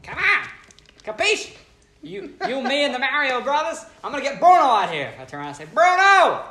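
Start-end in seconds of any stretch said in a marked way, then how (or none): 0.0-5.1 loud, much higher mock Italian accent, laughing through it; a cartoon Italian accent, loud and high with laughter; over-the-top Italian accent; hammed-up Italian accent. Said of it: "doing my, uh, Italian accent". 5.7-6.4 loud, much higher mock Italian call with a laugh; yelling across the room in a cartoon Italian accent; hammed-up Italian accent shout. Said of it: "doing my, uh, Italian accent".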